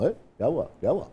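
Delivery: lightly imitating an elder actor's easy call; a casual, friendly hey, what happened; a hint of the senior actor checking in; Saleem Nasir's voice. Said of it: "ایسے بولتے تھے".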